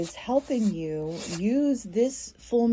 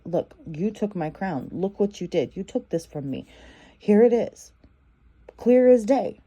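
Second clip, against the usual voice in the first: confronting, building to loud; 4 dB louder than usual. Retold or imitated.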